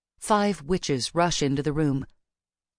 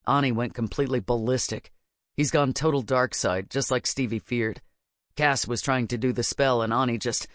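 put-on grim young witch Baz; 4 semitones lower than usual. A narrator's reading. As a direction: lower character voice, explaining.

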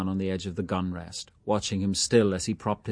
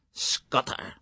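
thick cry; 4 semitones higher, 3 dB quieter than usual. A narrator's reading. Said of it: "he cried thickly".

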